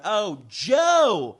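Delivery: "Joe" as a plain one-syllable name; lightly voiced surprised plain "Joe". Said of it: "like a person talks".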